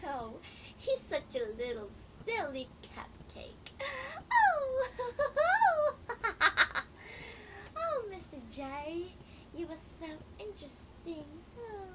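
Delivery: giggly Harley with high squealing laughs; Harley Quinn laughing. Acted. Kid doing Harley Quinn gushing over Mister J, giggly high laugh. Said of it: "that's my best Harley Quinn impression".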